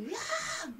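high mock scream of frustration; half-hearted demo yell. Shown as a demonstration. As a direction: let out a quick frustrated yell. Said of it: "소리 지르면서 얘기하세요".

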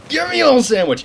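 high, loud shrieking yell; silly battle cry. Retold or imitated. Gamer knifing an enemy, shrieking a silly battle cry. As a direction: scream it like a goofy war cry. Replaying the goofy knife yell.

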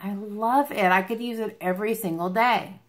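ordinary talk, nothing marked

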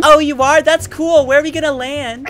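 man doing a woman's voice. Acted. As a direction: keep up the girlfriend act. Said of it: "to show him my girl voice".

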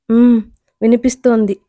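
ordinary delivery

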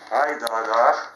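loud call pointing at him. Real, not acted. Man calls out, pointing at someone nearby, loud call. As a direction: call out to draw attention to him.

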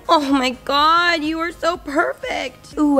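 slow, high cooing at a pet. Real, not acted. Cooing at dog on blanket.

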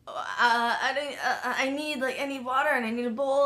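halting, half-hearted imitation of crying; imitated tearful fluster. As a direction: lightly act out a weepy scramble for words. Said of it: "I'm full Oprah crying".

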